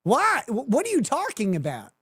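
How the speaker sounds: disbelieving, pitch jumping up; baffled what, why; can't believe what she hears; incredulous. Real, not acted. Incredulous reaction to S1's claim.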